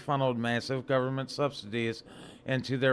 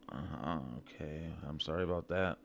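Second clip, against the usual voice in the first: much lower, softer off-script apology; muttered aside; 7 semitones lower, 10 dB quieter than usual. Real, not acted. Podcaster excusing a fluffed line to listeners, muttered aside. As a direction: drop right down, quiet and offhand.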